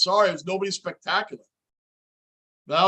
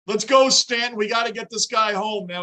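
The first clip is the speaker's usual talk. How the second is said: cheering on; 3 semitones higher than usual. Real, not acted. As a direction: pump up the batter at the plate. Cheering batter while watching.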